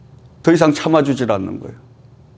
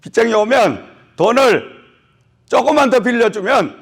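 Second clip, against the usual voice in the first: 열띤 설교; 7 semitones higher than usual. Acted. 설교 절정의 높은 목소리.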